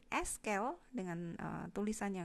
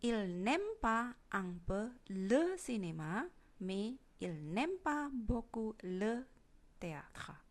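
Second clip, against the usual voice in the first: slow model sentence; slower than usual. Shown as a demonstration. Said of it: "apabila dinegatifkan".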